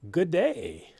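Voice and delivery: mock Australian "good day", lightly done; a hammed-up Aussie greeting, Australian twang; terrible Australian accent. Shown as a demonstration. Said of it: "That's my terrible, terrible Australian accent".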